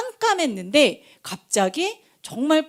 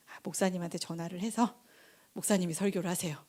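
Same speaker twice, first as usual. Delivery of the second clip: softer, lower voice; retold private thought; 4 semitones lower, 11 dB quieter than usual. Preacher imagining begging off the sermon, quiet and low. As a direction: think aloud, quietly giving up. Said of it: "그 전도사님 무슨 생각을 했겠어요".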